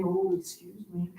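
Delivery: softly tossed-off sassy aside. Shown as a demonstration. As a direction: play a sassy, teasing little excuse. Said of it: "with the sassiness and the whole neck thing".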